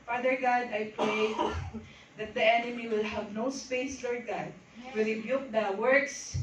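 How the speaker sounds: earnest prayer with repeated Lord God; leading prayer. Acted. Pastor praying aloud before the Word of God. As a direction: pray over the group, pleading.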